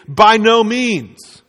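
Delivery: slow, weighty stress on "by no means"; emphatic by no means. Shown as a demonstration. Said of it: "his emphatic response here".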